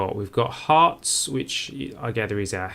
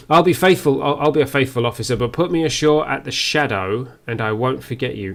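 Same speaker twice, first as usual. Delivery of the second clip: voicing the pirate officer; 2 semitones higher, 5 dB louder, faster than usual. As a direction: pledge loyalty as a pirate officer. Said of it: "I don't know what accent she would have".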